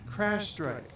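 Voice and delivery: high, tight adrenaline call at contained volume; breathless yell. A narrator's reading. Man alerts the boat that the marlin has struck, breathless yell. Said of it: "Voice breathless and tightening with adrenaline".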